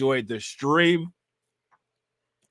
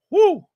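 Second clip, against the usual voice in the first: short, loud, high "woo"; high whoop; 7 dB louder than usual. Real, not acted. Streamer winding down from laughter, one high whoop.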